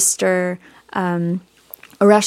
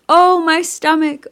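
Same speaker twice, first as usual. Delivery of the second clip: loud, high grieving wail; crying out in grief; 9 semitones higher, 5 dB louder than usual. Retold or imitated. Grieving goddess cries out for her husband, wailing. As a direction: let the grief burst out on Oh. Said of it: "she's crying out".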